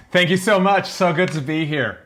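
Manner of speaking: bright-pitched, mock American accent; an Australian putting on an American accent; put-on American accent. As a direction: gush thanks in an American accent. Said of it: "your American accent is, uh, way better".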